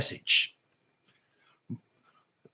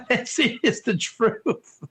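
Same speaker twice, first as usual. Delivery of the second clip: laughing; 2 semitones higher, much slower than usual. Real, not acted. Laughing at Texan phrase.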